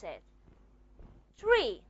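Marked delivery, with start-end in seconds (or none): 1.4-1.8 tree with a little h after the t; tree with aspiration; aspirated tree. Shown as a demonstration. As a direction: push a puff of air on the t of tree. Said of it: "there is a small H in here".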